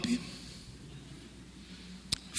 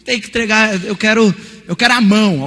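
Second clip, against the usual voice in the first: louder stern demand; angry teacher; 2 semitones higher, 4 dB louder than usual. Retold or imitated. Teacher angrily demanding handwritten work from students, loud. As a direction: lay down the rule, annoyed.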